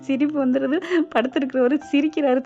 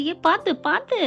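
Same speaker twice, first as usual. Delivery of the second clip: higher, quick cry of warning; mock alarm; 6 semitones higher, slower than usual. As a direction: lightly act out dodging blows. Dodging pillow blows, calls out. (பதறி எச்சரிப்பது போல)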